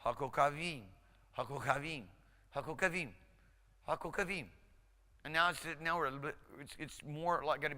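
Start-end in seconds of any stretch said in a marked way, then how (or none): 0.0-4.5 getting faster. Shown as a demonstration. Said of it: "try to get a little faster".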